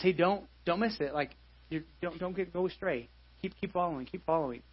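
soft, coaxing shepherd's voice; a soft, tender urging to keep following; gentle nudge. Retold or imitated. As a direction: coax the stray back quietly. Shepherd gently nudging sheep.

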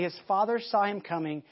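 ordinary talk, nothing marked

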